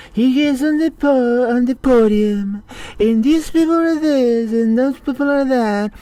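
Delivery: furious pitch climbing over Trump; heated rant. Real, not acted. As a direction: build up to a yell at him. Ranting about Trump at podium.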